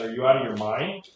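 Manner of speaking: light mock Austrian-German accent; a hint of a German accent, retelling an incredulous husband; lightly put-on German-accented question; Arnold Schwarzenegger. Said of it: "in his little Arnold Schwarzenegger accent".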